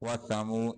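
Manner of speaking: वसमू with a soft th, not s; tongue out for the th; th sound. Shown as a demonstration. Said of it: "इसको सीन नहीं पढ़ना".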